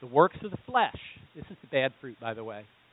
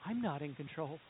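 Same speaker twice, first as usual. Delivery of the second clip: defeated admission; 5 semitones lower, 16 dB quieter than usual. Retold or imitated. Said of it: "Moses keeps on this tirade".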